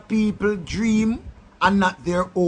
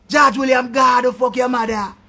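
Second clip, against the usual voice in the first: shouted insult; 3 semitones higher than usual. Real, not acted. Hurling insults in a rant.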